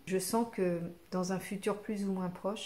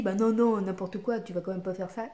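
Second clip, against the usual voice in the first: grosse voix de la peur; 4 dB louder than usual. Shown as a demonstration. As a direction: play the loud fearful ego saying no. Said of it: "plus grosse voix comme ça, qui te dit". (grosse voix autoritaire qui dit non)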